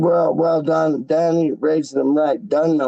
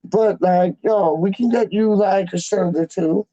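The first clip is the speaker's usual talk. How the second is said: imitating Wally; 4 semitones higher than usual. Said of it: "And he's like".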